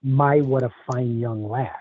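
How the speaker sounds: put-on a light, slowed Irish accent for the old woman; lightly voiced Irish lilt, unhurried; mild put-on Irish accent. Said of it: "says with a very thick Irish accent".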